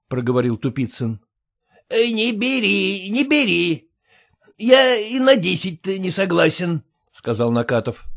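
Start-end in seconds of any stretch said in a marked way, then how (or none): 1.9-6.8 slow, raised, lightly voiced refusal; stubborn husband. Husband telling his wife to refuse, slow and stubborn. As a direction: dig in your heels.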